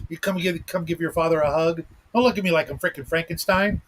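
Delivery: talking with gum in mouth; chewing gum. Real, not acted. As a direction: chew gum while talking. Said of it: "if I didn't have gum in my mouth".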